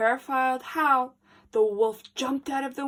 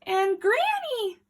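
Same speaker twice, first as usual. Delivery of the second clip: careful; 11 semitones higher, 4 dB louder than usual. Acted. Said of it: "Little Red said carefully".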